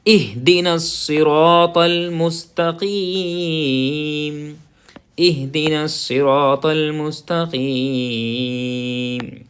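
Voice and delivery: الصراط with a full, emphatic صاد; heavy saad. Shown as a demonstration. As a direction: recite it slowly, heavy صاد. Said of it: "صاد کی آواز نکالیں گے". (صاد کی آواز پوری نکالیں)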